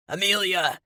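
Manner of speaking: a loud desperate cry of her name; calling her name loud over the fight; cries out. A narrator's reading. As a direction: call out to her across the chaos. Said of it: "Luke cries".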